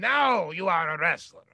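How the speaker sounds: put-on very loud, thick, heavy Polish accent. Recalling the man who popped his elbow, the speaker quotes him in a thick polish accent. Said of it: "with his big, thick Polish accent".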